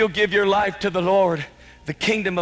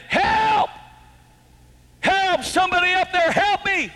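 screaming for help; 13 semitones higher than usual. Retold or imitated. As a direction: yell up desperately for someone to save you. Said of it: "he screamed out".

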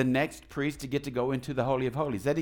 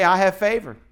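declaring it aloud; 6 dB louder than usual. Shown as a demonstration. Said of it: "So we say".

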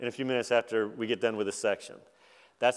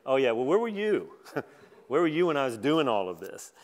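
mild sarcastic challenge. Acted. God challenging Job on where he was, sarcastic. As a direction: challenge him with a touch of sarcasm. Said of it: "he's using sarcasm very effectively".

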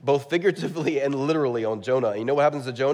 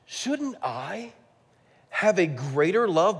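tender God; 5 semitones higher, much slower than usual. Retold or imitated. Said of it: "what God basically says".

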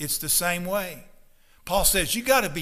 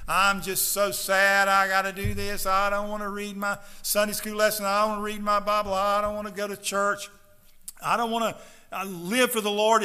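lazy whining; 2 semitones higher than usual. Retold or imitated. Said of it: "not with a slothful laziness".

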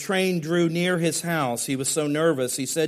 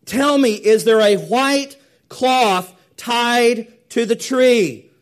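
high, loud, desperate asking; anxious plea; 9 semitones higher, 10 dB louder, slower than usual. Acted. Nervous son on the train begging his friend to look, desperate. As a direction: beg to know, dreading the answer. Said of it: "the son asked, said".

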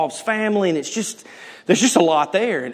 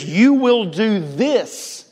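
stern command; 4 semitones higher, much slower than usual. Retold or imitated. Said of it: "somebody comes in and says".

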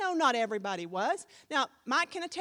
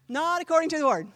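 louder take; 3 semitones higher, 6 dB louder, faster than usual. Shown as a demonstration. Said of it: "repeated louder".

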